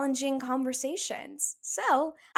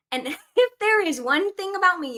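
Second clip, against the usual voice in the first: laughing; 7 semitones higher, 6 dB louder than usual. Real, not acted. Laughing start of declaration.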